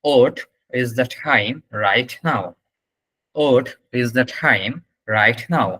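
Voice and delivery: very slow, broken into small chunks; slow repeat-after-me. Shown as a demonstration. Teacher asking everyone to repeat along, slow drilled question. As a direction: pause between chunks, "What" as "ot". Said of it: "একটু কষ্ট করে একবার repeat করেন".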